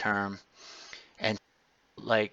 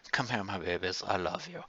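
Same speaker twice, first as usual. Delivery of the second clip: sweet talk; 2 semitones lower, 6 dB quieter than usual. Retold or imitated. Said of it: "it sounds weird that I'm talking like this".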